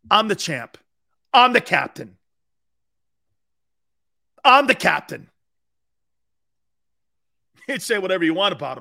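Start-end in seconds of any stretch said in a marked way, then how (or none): 0.1-0.8 mock boast. 1.3-5.3 loud, proud declaration of being captain; boastful yell. Retold or imitated. Mock boast as Stafford.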